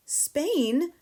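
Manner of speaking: high, loud disbelieving question; the word thrown back in shock; cried out. A narrator's reading. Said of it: "Matilda cried".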